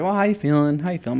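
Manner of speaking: breezy check-in, pitched well up; casual small talk. Retold or imitated. Doctor making small talk before bad news, imitated casual chat. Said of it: "he's just talking normal".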